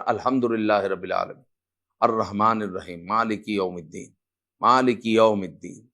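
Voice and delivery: "مالک یوم الدین" rattled off low, with plain everyday sounds; faulty recitation. Shown as a demonstration. Teacher mimicking people's faulty Fatiha, careless low recitation. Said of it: "ادائیگی درست نہیں ہوتی".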